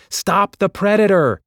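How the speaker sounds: high, loud alarm; shout. A narrator's reading. Hazel shouting a warning over the battle, loud alarm. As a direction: yell to warn him.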